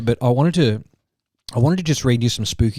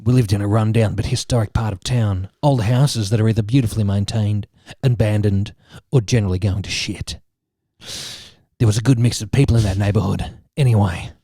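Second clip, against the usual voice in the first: lowered, mock-grave horror storyteller; Garth Marenghi; 3 semitones lower than usual. Host reading friend a spooky story, lightly voiced Garth Marenghi. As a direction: narrate like a self-serious horror author, lightly. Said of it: "doing it in Garth Marenghi's voice".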